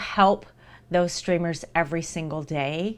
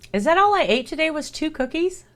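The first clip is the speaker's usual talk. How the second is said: much higher, disbelieving question; incredulous; 10 semitones higher than usual. Real, not acted. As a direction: catch yourself in disbelief. Shocked at own eating.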